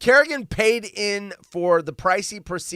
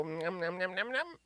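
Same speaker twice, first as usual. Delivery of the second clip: soft munching noises; 12 dB quieter than usual. Pretend. Dog eating noises.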